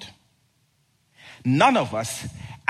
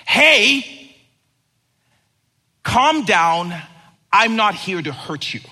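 high, loud friendly angel; voiced angel calming a scared person; angel reassuring; 4 semitones higher, 6 dB louder, slower than usual. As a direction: call out to calm them down.

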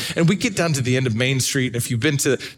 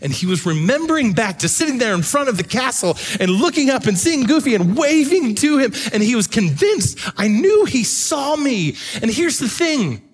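impassioned preaching; 7 semitones higher than usual. Acted. Preaching climax builds.

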